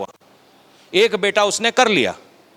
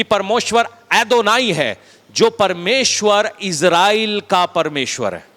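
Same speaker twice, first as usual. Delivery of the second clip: slow solemn declaration; slower than usual. Acted. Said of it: "slow declaration of God's name".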